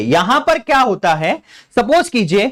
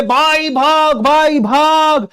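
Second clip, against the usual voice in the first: mock urgent call; 5 semitones higher, much slower than usual. Brothers urging each other on.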